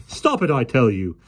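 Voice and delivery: rising loud protest. A narrator's reading. Policeman shoos the lion, rising loud protest. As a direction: shoo it off.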